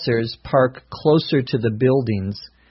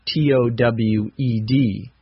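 spelling it out. Shown as a demonstration. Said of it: "my car may be towed".

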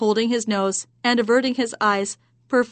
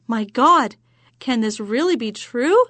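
astonished exclamation; 2 semitones higher, 5 dB louder than usual. Acted. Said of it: "exclaimed the man".

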